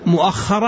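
"ومؤخرة" as wa-mu-'akh-khara; fatha on hamza. Shown as a demonstration. Teacher repeating the variant for students, "ومؤخرة" pronounced wa-mu-'akh-khara. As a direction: open the hamza, double the kha in "ومؤخرة". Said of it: "هذه بفتح الهمزة".

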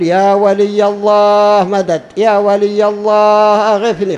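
imitating a grave-side supplicant; mock plea to a saint. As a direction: cry out to a dead saint for help. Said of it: "خطأ، ضعف".

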